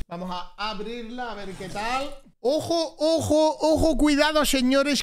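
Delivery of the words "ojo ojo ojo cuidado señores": higher, laughing warning; half-laughing ojo ojo; excited warning. Real, not acted. Reacts to an unexpected box.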